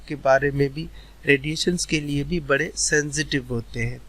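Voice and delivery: ordinary talk, nothing marked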